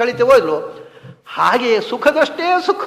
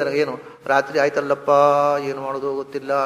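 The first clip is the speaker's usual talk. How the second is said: mock wailing lament; 8 semitones lower, 5 dB quieter than usual. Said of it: "ಕೂಗ್ತಾ ಕೂತ್ಕೊಳ್ಳೋದು".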